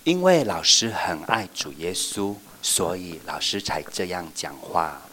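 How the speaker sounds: slow, gentle sincere voice; a touch of tender teacher. Shown as a demonstration. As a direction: tell them tenderly. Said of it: "我们就要说".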